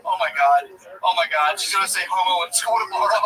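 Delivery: mock-giddy schoolkid thrill; stoked. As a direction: relive a child's giddy anticipation. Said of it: "being, like, stoked".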